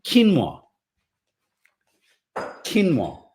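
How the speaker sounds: QUINOA said as two syllables, KEEN-wah; tongue-twister word. Shown as a demonstration. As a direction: pronounce Quinoa "KEEN-wah", falling at the end. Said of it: "words that we can't pronounce".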